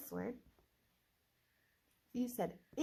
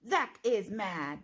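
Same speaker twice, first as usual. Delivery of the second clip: slow model read; 4 dB louder, much slower than usual. Shown as a demonstration. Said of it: "My turn".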